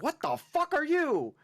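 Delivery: high, loud, slow baffled exclaim; Laventon. Retold or imitated. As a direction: gape at a strange creature. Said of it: "Laventon meeting a Porygon and being like".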